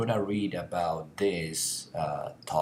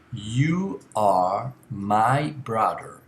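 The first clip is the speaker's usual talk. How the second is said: slow example; 4 dB louder, much slower than usual. Shown as a demonstration. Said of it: "In this case".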